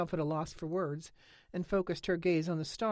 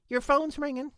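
much higher, louder call; 11 semitones higher, 8 dB louder than usual. A narrator's reading. Holly tells Lena the phone rings, loud. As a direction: tell her over the ring.

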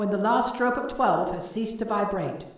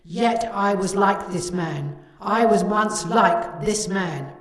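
ghostly lament; 6 dB louder than usual. A narrator's reading. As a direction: wail it like a tormented spirit. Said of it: "cried the ghost".

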